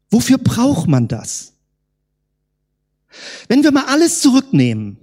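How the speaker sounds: ordinary delivery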